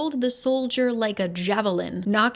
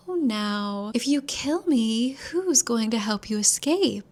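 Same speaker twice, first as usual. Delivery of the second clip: lilting, teasing creature voice; sing-songy; 3 semitones higher than usual. Retold or imitated. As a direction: croon it like a sly demon. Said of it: "This little sing-songy voice".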